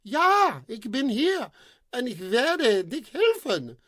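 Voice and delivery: high, loud, slow call back; heroic shout. Acted. The prince calls up to the maiden, a proud heroic shout. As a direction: bellow a promise upward. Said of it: "he shouted back".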